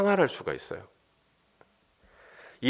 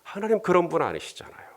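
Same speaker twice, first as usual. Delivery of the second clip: soft, higher-pitched acted plea; 4 semitones higher, 4 dB quieter than usual. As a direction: gently coax as Moses pleading with God. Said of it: "모세의 이 설득". (부드럽게 달래며 설득하는 말투)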